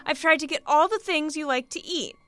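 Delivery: a touch of anxious hostess; anxious eagerness. A narrator's reading. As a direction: fret over pleasing him. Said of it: "she went on anxiously".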